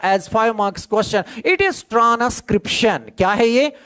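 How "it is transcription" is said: slow, spelled-out dictation pace. Shown as a demonstration. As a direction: give the definition word by word for notes. Topic announced slowly.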